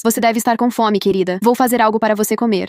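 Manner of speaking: lightly softened, a bit too sweet; a touch of syrupy tenderness; soft, overly tender. Acted. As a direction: coo at the favourite daughter. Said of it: "num tom suave, quase carinhoso demais".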